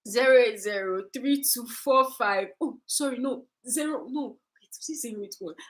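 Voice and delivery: acting out forgetting your own number; re-enacted confusion, fading to a murmur; flustered blanking. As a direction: trail off softly, correcting yourself. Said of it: "That was exactly how I was".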